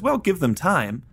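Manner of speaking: high-pitched, drawn-out line as Frank; Frank's retort. Retold or imitated. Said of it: "because Frank says".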